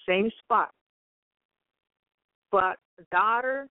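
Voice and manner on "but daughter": slow, solemn voice of God speaking. Retold or imitated. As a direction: speak slowly as God addressing his daughter. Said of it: "he says".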